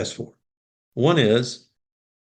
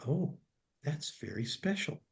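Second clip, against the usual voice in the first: much softer, gentle reply; tender Santa; 6 semitones higher, 14 dB quieter than usual. Retold or imitated. Santa answers the boy who lost his brother, soft and tender. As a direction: hush down and comfort the child.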